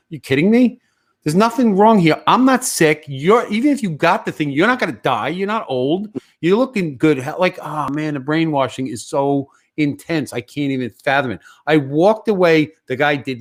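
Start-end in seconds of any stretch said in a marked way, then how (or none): 0.1-7.2 higher-pitched, incredulous telling-off; exasperated inner rant. Retold or imitated. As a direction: replay the rant you held back. Acting out his inner rant.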